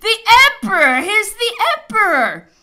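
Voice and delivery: high, ringing alarm cry; loud exclamation. A narrator's reading. Patrol officer warning rioters of the emperor, exclaiming loudly. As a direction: call it out at full voice, pitch leaping up. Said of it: "happy thought of exclaiming".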